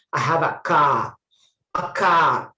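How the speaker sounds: "car" said "kah", no R; silent R. Shown as a demonstration. Teacher showing students the silent R, "car" said "kah". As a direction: open vowel ending "car", R dropped. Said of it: "R is also silent".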